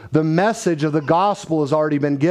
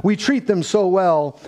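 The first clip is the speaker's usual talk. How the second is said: lightly mock-sincere, a bit higher; tongue in cheek; 4 semitones higher than usual. Director shows off caged bird in trailer, tongue in cheek. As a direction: present it proudly, tongue in cheek. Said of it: "there's a little tongue in cheek".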